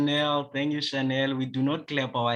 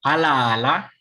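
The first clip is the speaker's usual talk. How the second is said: louder echo of the greeting; echoing the call; 3 semitones higher, 7 dB louder than usual. Real, not acted. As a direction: answer the call back brightly. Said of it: "Repeat after me".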